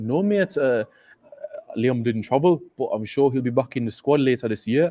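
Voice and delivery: put-on north-east English Geordie accent. Retelling the other man's reply to his question: geordie accent. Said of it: "he was using the Geordie accent".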